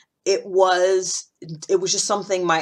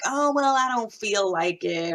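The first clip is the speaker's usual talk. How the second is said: mock excuse; 5 semitones higher, slower than usual. Mocking a slacker's excuse.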